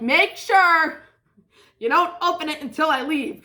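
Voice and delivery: high, loud urging; insistent instruction. Retold or imitated. Handing a friend a secret gift, insistent.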